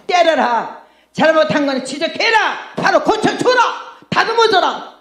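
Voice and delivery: building preacher's emphasis; rising emphatic. Real, not acted.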